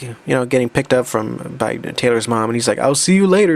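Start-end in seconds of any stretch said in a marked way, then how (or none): 2.8-3.6 higher, lightly acted goodbye; Jeff's farewell. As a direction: call out a friendly sign-off, pitched up. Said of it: "Then Jeff is, like".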